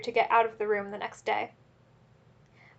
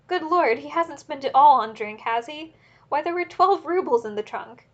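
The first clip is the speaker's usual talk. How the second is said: higher and louder, in a frenzy; frantic screaming; 5 semitones higher, 6 dB louder than usual. A narrator's reading. Wife realizes the roubles are gone, frantic higher shout. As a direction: wail it out in panic. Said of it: "she screamed".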